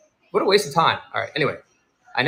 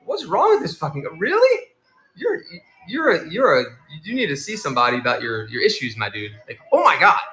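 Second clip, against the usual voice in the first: incredulous outrage. Retold or imitated. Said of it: "And I was like".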